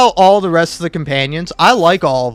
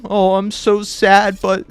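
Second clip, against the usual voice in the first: mock sad Gale; 2 semitones higher than usual. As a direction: whine it like a martyr. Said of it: "he'd be like".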